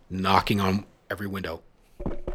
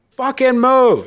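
very high, loud mock scream; furious scream; 11 dB louder, slower than usual. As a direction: shriek it at the car. The woman screaming at him.

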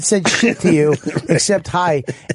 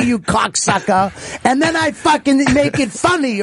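mock rant; 5 semitones higher than usual.

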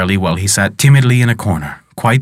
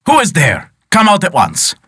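a higher, half-shouted call into the dark; mild shout; 6 semitones higher than usual. Acted. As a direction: call out, startled and upset, only half full voice. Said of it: "shouted the poor man beside himself".

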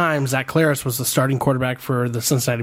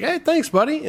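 imitated player; 13 semitones higher than usual. Player replying, voiced high.

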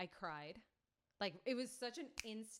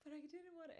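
whiny protest; 10 semitones higher than usual. Retold or imitated. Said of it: "And I'm like".

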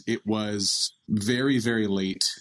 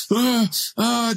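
labor groans; 13 semitones higher, 4 dB louder than usual. Retold or imitated. Mom groaning through labor contractions.

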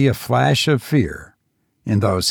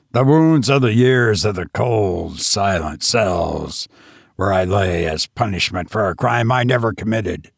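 lightly voiced, menacing madman gloating; mad tavern host; 3 semitones lower than usual.

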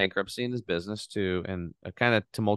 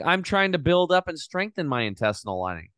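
indignant; 8 semitones higher, 3 dB louder than usual. Retold or imitated. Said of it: "I'm like".

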